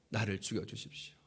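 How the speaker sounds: low, broken plea to die; hushed plea. Acted. Moses lying face down before God, begging low and broken. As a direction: sink the voice, almost giving up.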